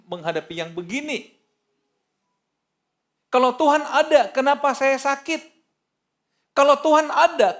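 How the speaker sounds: loud, high-pitched protest; acted indignant challenge; accusing God. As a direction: hurl the questions as an aggrieved believer, building in force. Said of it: "Akhirnya orang nyerang Tuhan".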